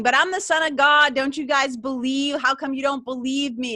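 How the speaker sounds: hammed-up plea; plea shouted in the market square; mock shouting. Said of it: "start shouting".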